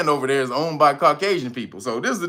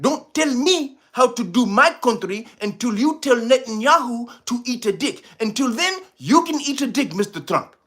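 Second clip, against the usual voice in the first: mock president retort; 8 semitones higher than usual. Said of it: "I would have got".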